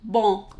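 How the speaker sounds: bon with nasal O, no n; French bon. Shown as a demonstration. Teacher modeling bon, nasal O. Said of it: "O N".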